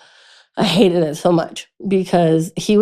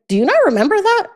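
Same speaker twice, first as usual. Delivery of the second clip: incredulous friend; 11 semitones higher, faster than usual. Retold or imitated.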